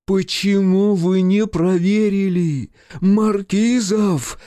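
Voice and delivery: very high, loud, slow enraged cry; rasping fury. A narrator's reading. Director menacing his assistant, loud slow enraged rasp. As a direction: advance on him, threatening. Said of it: "прохрипел он".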